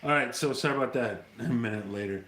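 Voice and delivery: ordinary talk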